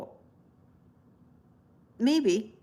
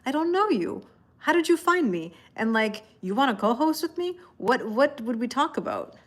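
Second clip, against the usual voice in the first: higher, puzzled reaction to strangers; mock bewildered inner voice; 4 semitones higher than usual. Tarot streamer voicing her puzzled reaction to random requests. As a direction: play the baffled thought, pitched up. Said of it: "there's a part of me that wonders, like".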